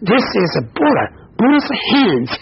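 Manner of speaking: a monkey gasping at what he finally sees; surprised. Retold or imitated. Trapped monkey realizing it is Buddha's hand, surprised. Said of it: "monkey was very surprised".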